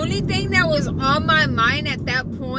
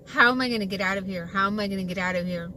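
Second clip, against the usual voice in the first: panicked murmur; 5 semitones lower, 8 dB quieter, much faster than usual. Retold or imitated. Retold panic trapped.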